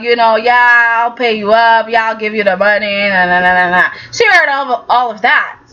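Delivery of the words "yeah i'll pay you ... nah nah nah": lower dismissive Billy. Retold or imitated. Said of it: "heard him talk to him".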